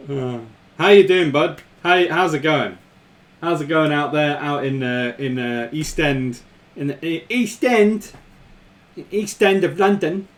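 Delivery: hammed-up East End London accent; amateur attempt at East London Cockney; terrible Cockney accent. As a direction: put on a bad Cockney accent. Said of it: "Excuse my terrible accent".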